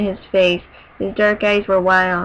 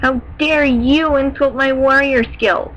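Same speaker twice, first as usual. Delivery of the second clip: higher, slow angry retort; snapping in anger; 5 semitones higher, 3 dB louder than usual. Acted. Warrior turning the father's words back on him, slow and angry. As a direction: spit it back, slow and raised. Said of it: "Something snapped within me".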